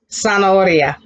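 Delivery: Zanahoria begun with an S sound. Shown as a demonstration. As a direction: say Zanahoria as "sanaoria". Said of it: "The Z sound like a S".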